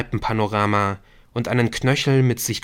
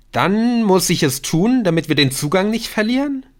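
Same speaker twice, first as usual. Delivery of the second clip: mock outrage; 10 semitones higher, 4 dB louder than usual. She jokes about seducing the teacher.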